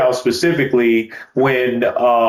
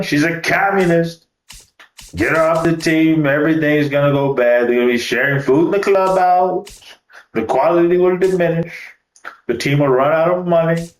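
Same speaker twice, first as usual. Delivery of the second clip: raised, hammed-up alarmist rant; mock red-scare panic; 4 semitones higher than usual. Gamer mocking a player as a communist, hammed-up raised alarm. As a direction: play a sarcastic fearmonger warning the team.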